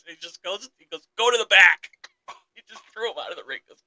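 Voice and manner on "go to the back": mock order. Kane ordering R-Truth out.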